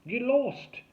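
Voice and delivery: loud, high-pitched bark. A narrator's reading. Derek drives off would-be rescuers, barking. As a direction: bark it as a rude dismissal. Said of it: "Derek barked".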